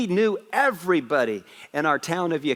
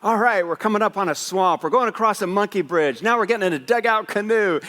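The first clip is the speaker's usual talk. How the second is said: raised, pushed voice, mock-winded trail report; imitating out of breath; 5 semitones higher than usual. Dad recording himself walking the trail, mildly acted breathlessness. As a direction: lightly act winded, calling out the route higher. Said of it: "He's out of breath, going".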